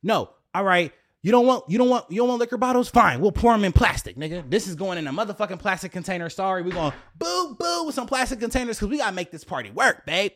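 frantic high-voiced begging; pleading. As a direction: beg him to let the party happen, high-pitched. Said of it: "this is how I'm begging".

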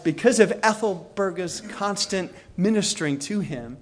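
usual speaking voice

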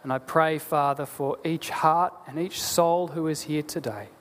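measured, earnest prayer voice; pastor's closing prayer. Acted. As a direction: pray it aloud for the congregation.

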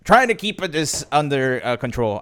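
slow, exaggerated Italian accent; a goofy Italian accent for a line. Real, not acted. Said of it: "said it with a weird Italian accent".

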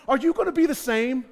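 loud preaching challenge; rising plea. Acted. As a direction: press it on Nehemiah. Preacher voicing plea at full force.

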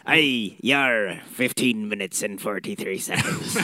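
hammy pirate, growled out. Pretend. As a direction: ham up a pirate announcing time. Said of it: "Or a pirate voice".

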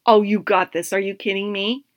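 inner coach voice. Retold or imitated. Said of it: "So I'd say".

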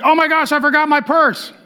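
high-pitched mock dismay; flustered shopper. Lady at the till finds her purse missing, mock dismay. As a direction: imitate a shopper suddenly panicking at the till. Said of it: "she feels really bad".

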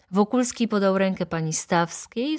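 ordinary delivery, nothing marked

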